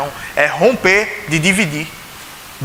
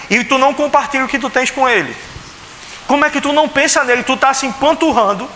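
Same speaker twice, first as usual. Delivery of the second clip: quick, higher, indignant apostle scolding; pitched-up rapid scolding of the church; Paul's scolding rebuke; 4 semitones higher than usual. Retold or imitated. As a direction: rattle off the rebuke like an exasperated apostle. Paul rebuking the stuffed, drunk believers.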